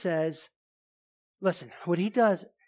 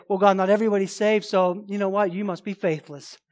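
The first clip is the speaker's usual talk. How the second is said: mock complaint. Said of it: "We can't say".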